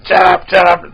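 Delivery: a mock yell to hush noisy kids; retold yell. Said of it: "I kept telling him".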